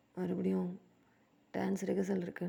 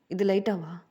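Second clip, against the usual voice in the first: loud indignant repeat; 7 dB louder, slower than usual. Acted. The rapper throws a bandmate's words back at him, indignant and loud. He disbelieves "light fever.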